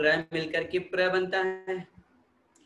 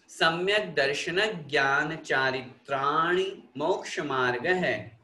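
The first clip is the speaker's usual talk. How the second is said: sutra recitation. Shown as a demonstration. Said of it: "एक एक शब्द का उच्चारण करेंगे".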